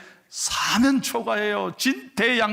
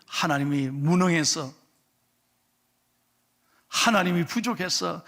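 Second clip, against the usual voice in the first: ordinary talk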